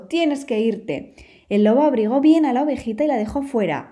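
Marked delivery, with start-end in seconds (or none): 0.0-1.1 slow grumbled "tienes que irte"; grumbling. Acted. Wolf sending the lamb away, slow grumble. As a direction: drag it out grumpily. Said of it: "refunfuñó el viejo lobo".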